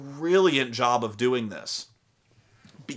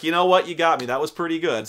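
good-sport wizard; 4 semitones higher, 5 dB louder, faster than usual. Retold or imitated. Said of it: "He was like".

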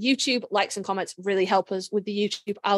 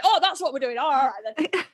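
put-on Yorkshire accent; 3 semitones higher than usual. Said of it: "it was lad that brought it out".

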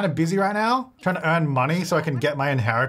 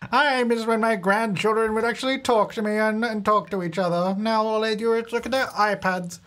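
a hint of a complaining granny, higher; whiny grandma lament; grandma sighing over her grandkids; lightly voiced old grandma; 5 semitones higher than usual.

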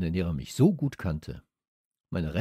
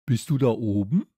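louder questioning call; calling up from below; 6 dB louder than usual. A narrator's reading. Boy calls up to his dog, calling out. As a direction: shout a question up the stairs, lightly. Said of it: "tönte es von unten herauf".

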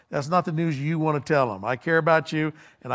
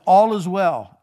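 loud, raised announcement to a king; crying out; 4 semitones higher, 8 dB louder, slower than usual. Acted. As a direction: call out the good report. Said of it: "he cried out to the king".

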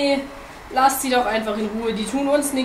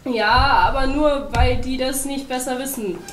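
loud, high-pitched rant; raised-voice lecture to an opponent; heated argument; 5 semitones higher, 8 dB louder than usual. A narrator's reading. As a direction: argue with mounting exasperation. Bear rants back in quarrel.

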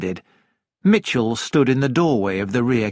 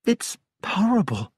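tag; 8 semitones higher than usual. A narrator's reading. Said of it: "Jane shivered".

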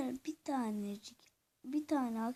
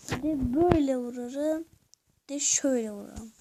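excited; 8 dB louder than usual. Real, not acted. Hitting in game, excited.

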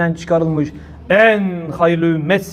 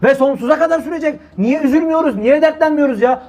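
higher, urgent pleading sermon voice; impassioned preaching; 6 semitones higher than usual. Acted.

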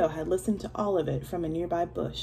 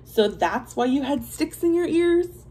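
amused king; 8 semitones higher, 5 dB louder than usual. Acted. King laughing question.

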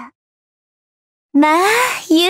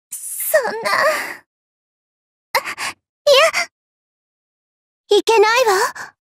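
laughing mock dismay; 6 semitones higher than usual.

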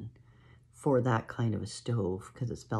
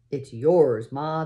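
louder, bursting with joy; excited shout; 3 semitones higher, 9 dB louder, slower than usual. Acted. Girls surprising Ma with the stove, joyful shout. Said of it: "they shouted".

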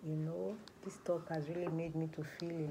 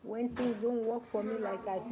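higher and louder, breaking out in despair; anguished outburst; 3 semitones higher, 6 dB louder than usual. Acted. Distressed teen tells worker she wants to die: loud anguish. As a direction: blurt out the pain all at once.

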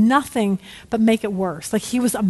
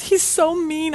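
higher-pitched mock whimper; lightly hammed-up tearful teen; imitated sobbing; 5 semitones higher, slower than usual. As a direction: complain through pretend tears. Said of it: "she's crying and sobbing".

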